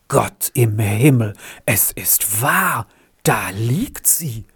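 shaken, breaking down to a whisper; stunned, the last words barely breathed; a man horrified at what he sees below. Acted. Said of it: "sprach Martin erschüttert".

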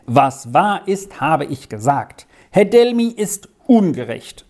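stubborn, rising on Delmy; defiant. Acted. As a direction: dig in and hold your ground. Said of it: "sagte Lex trotzig".

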